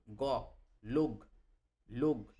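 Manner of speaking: লোক said slowly, ending on a clear g sound; slow Hindi sound drill; slow Hindi demo. Shown as a demonstration. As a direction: stretch out লোক with its final গ. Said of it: "teaches Hindi লোক".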